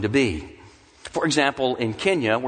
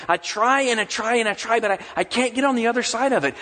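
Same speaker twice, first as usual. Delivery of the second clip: higher, pleading lament to God; anguished prayer; 6 semitones higher than usual. Acted. A suffering believer pleading with God, higher and pleading. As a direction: beg God for an answer, voice pitched up.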